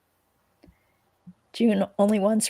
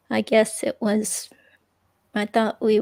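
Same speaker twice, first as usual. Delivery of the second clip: whisper. Real, not acted. Confiding about breakup.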